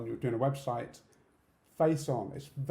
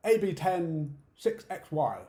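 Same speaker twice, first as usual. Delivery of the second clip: letters and numbers run straight together; quick spelling; 3 semitones higher, 4 dB louder, slower than usual. Shown as a demonstration. Someone spelling a code to a deaf person, too quickly. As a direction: rattle off the code without explaining letters. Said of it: "spell it out really quickly".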